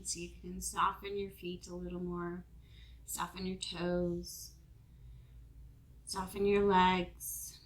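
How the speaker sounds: calm, measured meditation guide with long pauses; guided meditation. Real, not acted. Yoga teacher guiding the room through a body scan, guided meditation. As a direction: ease listeners into rest, phrase by phrase.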